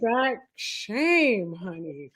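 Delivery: slow, sassy drawn-out line; sassy drawl. Acted. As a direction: drag it out with sass.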